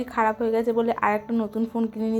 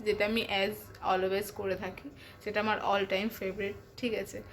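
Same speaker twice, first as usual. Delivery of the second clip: speaking softly; 6 dB quieter than usual. Real, not acted. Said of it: "আস্তে আস্তে কথা বলছি".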